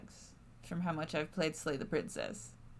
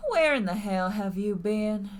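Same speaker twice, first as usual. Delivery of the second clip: angry demand; 6 dB louder than usual. Acted. Tabitha confronts the player.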